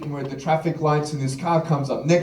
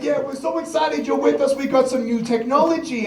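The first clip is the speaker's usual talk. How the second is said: mock excitement; 7 semitones higher than usual. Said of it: "And I said".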